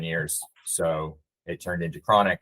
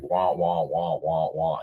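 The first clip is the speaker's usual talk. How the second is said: lightly mimicked teacher wah-wah from the cartoon; Charlie Brown's teacher; 3 semitones lower, much slower than usual. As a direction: hum a loose "wah, wah" like the muffled adult voice in Peanuts. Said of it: "Charlie Brown's teacher".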